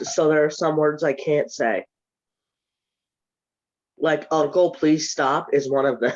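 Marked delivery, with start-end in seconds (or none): 4.3-5.5 blocked nose, slow; stuffy nose. Shown as a demonstration. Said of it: "My nose is stuffed".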